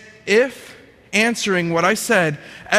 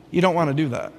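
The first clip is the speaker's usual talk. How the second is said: calm little voice; 4 semitones lower, faster than usual. Retold or imitated. Little inner voice warns him off the spiral, calmly. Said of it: "this little voice said calmly".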